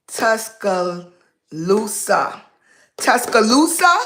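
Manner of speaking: Tuscaloosa sounded out haltingly, then asked; trying out pronunciation. Real, not acted. Guest checks a town's name with the audience, tentative sounding-out. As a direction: try Tuscaloosa in careful pieces, ending unsure. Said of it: "Is that right?".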